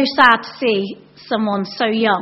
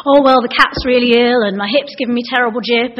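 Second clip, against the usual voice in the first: louder oversharing complainer; hammed-up woe, pushed louder; mock moaning; 6 dB louder than usual. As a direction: reel off ailments in a put-on grumble. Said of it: "You know, you don't say".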